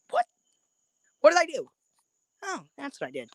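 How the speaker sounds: retold yelp of surprise, pitched high; high, mock-bewildered question; mock shock. Host replays his shock at his own prediction, mock shocked.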